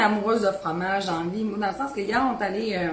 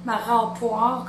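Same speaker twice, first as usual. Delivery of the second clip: slow naming; 4 dB louder, much slower than usual. Real, not acted. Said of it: "comme j'ai déjà dit".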